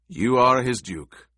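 "You are his duke" with a lifted, pointed ARE, falling away; strange subtle intonation. A narrator's reading. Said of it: "strange, subtle intonation".

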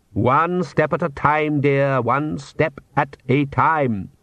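slow, measured cheerful encouragement. Acted. Count coaxing his daughter into daylight, mildly cheerful. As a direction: encourage patiently and lightly cheerfully, spacing the words. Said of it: "said the Count cheerfully".

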